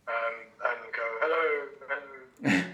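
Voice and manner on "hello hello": magically amplified voice. Pretend. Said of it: "cast Thaumaturgy on my voice".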